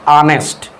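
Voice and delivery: ऑनेस्ट starting on an open "aa" vowel; silent H. Shown as a demonstration. Teacher shows how honest is read, silent H. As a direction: say ऑनेस्ट with no h sound. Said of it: "कैसे पढ़ा जाता है?".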